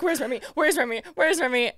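mildly panicked repeated question; re-enacted flustered search; freaking out. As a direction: act out frantically searching for someone. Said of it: "I'm, like, freaking out".

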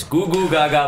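put-on baby voice. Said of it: "This is my baby voice".

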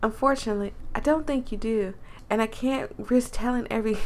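lightly voiced country accent; a touch of country twang. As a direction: put on a mild country accent. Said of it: "I'm messing up her accent".

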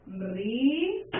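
río broken as "ri-o", held "ri" then "o"; syllable by syllable. Shown as a demonstration. Teacher showing the class a hiatus, syllable by syllable. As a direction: split "ri-o" slowly into two beats. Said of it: "la división silábica".

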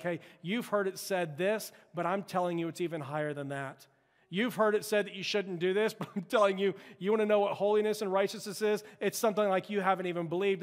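rising preacher's voice. Retold or imitated. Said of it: "He keeps saying things like".

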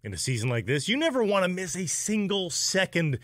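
friendly, fluent sports-radio ad read; sponsor ad read. Acted. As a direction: pitch the sports bar to fellow fans. Reads a sponsor ad.

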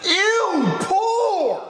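high, drawn-out cry of disgust; snobbish disgust. Acted. Snobbish disgust at tiny pay.

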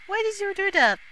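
high loud indignant question; indignant cry. Real, not acted. Gamer to another player, high indignant cry. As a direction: demand it loudly.

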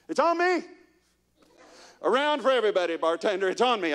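mock big spender. Kid with a quarter treating everyone, mock bragging. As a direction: play the showy big spender. Playing rich kid at bar.

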